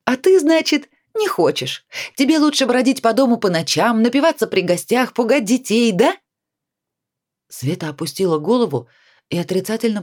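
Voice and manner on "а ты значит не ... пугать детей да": higher, louder accusing voice; angry reproach. A narrator's reading. Nadya angrily lists her friend's drunken sins. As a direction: pile on the accusations in rising anger. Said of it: "Надин гнев ... разгорелся".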